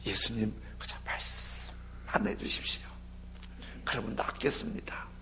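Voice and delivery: hushed, low plea, near a whisper; humble request. Acted. Centurion asks Jesus only to say the word, hushed and humble. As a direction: ask softly and deferentially.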